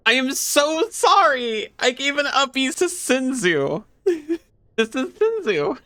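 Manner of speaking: very high, drawn-out apologetic coo; high-pitched apology. Real, not acted. Streamer apologising over picking up Senzu, high-pitched cooing. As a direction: stretch it out slowly, way up high.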